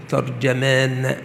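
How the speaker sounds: ترجمان said slowly as "tarjamaan"; fatha on ta and jim. Shown as a demonstration. Teacher repeating the first form for students, ترجمان as tarjamaan. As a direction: open a on both ت and ج of ترجمان. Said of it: "بفتح التاء والجيم".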